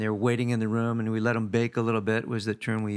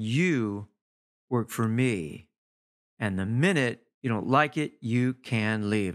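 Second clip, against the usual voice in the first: measured, stern boss putting someone in their place; firm ultimatum without shouting, deliberate pauses; stern retelling; 2 semitones lower, slower than usual. Retold or imitated. Boss retelling his ultimatum to a pushy salesperson, stern. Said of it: "I said very sternly".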